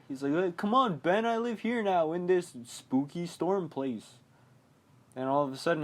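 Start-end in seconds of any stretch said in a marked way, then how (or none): 0.3-4.2 higher, lightly voiced dad; dad calling out. Dead dad beckoning Ben into the drain, raised mock call. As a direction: beckon your son in a playful mock call. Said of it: "He sees his dad".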